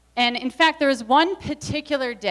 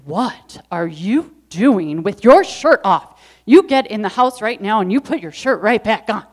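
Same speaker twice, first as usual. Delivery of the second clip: scolding mom; 6 dB louder than usual. Retold or imitated. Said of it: "and she said".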